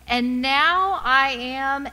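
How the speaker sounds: loud, high and slow cry of joy; cried out. Retold or imitated. Fayette rising from the baptism water, crying out. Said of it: "and cried".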